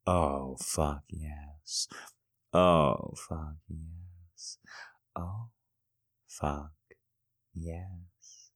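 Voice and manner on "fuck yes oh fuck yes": whisper. Acted. Whispered aside in scene.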